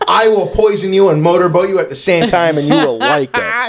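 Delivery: lightly voiced, emphatic mock threat; threatening poisoner. Poisoner defying the police, mock menace. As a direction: play up the poisoner's threat a little. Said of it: "She pulled her tips, t-, her tits out in front of the police and said".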